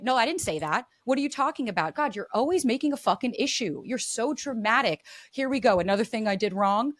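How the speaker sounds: defensive discrediting. Retold or imitated. Partner dismissing a complaint, exasperated and defensive. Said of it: "oftentimes we go into discredit".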